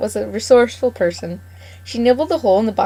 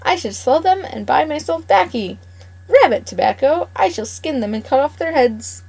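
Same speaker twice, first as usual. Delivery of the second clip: put-on indignant old farmer; 6 semitones higher than usual. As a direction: bluster and insist on your plan. Mr McGregor argues, indignant.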